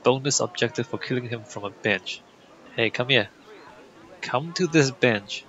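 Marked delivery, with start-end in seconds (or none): 2.8-5.5 mock coaxing. Coaxing target to bench.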